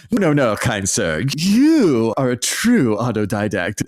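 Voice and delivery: slow, grandly polite fawning voice; pompous mock gentleman. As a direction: lay the fake courtesy on thick. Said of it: "the other guy would be like".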